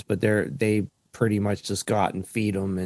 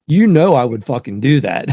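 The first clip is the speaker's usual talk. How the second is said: louder mock-gruff insistence; dad insisting; 6 dB louder than usual. Dad insisting to daughter, loud and gruff. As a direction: dare her to doubt it. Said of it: "he just was like".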